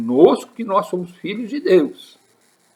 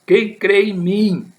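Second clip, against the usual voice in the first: slow, high proclamation; crying out in a loud voice; 6 semitones higher, 4 dB louder, slower than usual. Retold or imitated. Preacher voicing Jesus amid the Jerusalem crowd, crying out. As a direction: call out as if over a crowd, drawing it out. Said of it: "falando em voz alta, clamando, dizendo".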